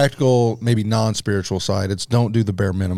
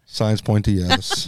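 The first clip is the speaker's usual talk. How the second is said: sad; 3 dB quieter, slower than usual. Real, not acted. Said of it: "You sounded so sad".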